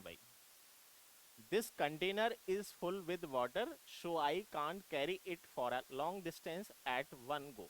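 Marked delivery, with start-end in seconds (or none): 1.5-7.7 reads the sentence out slowly, word by word; slow dictation read. Shown as a demonstration. Teacher reading a test sentence to students, slow dictation.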